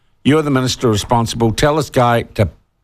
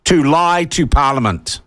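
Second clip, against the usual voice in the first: raised, slowed disbelief at the number; incredulous outrage; 5 semitones higher than usual. Real, not acted. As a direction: hammer home the salary figure in outrage. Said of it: "more angry I am becoming".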